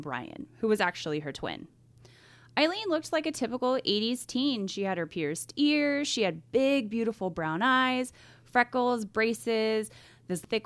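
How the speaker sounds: measured true crime storytelling; suspenseful crime show narrator. Acted. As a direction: tell the case calmly, with weight. Reads the case background.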